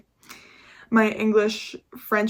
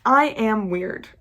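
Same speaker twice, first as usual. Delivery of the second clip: reading affirmation; 5 dB louder, slower than usual. Retold or imitated. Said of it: "I was like".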